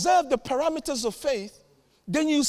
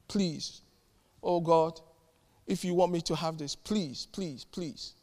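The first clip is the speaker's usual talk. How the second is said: timid begging prayer; 4 semitones lower, slower than usual. Retold or imitated. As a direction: beg God weakly, not in faith. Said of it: "no, I'm not in faith".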